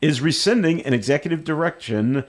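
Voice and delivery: reading a news item aloud. Real, not acted. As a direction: read it out like a radio news story.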